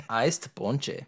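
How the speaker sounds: "Iced ponche" said as "eyest pawn-chee"; playful odd pronunciation. Acted. Amusing co-host with the drink's name, playful odd pronunciation. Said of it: "The way you said it".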